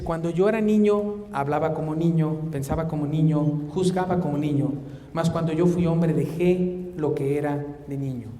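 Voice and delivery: loud scripture reading. Acted. Reads scripture, louder.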